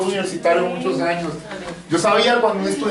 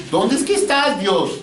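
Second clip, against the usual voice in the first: anguished plea; 5 semitones higher, slower than usual. Retold or imitated. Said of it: "uno en esas situaciones dice".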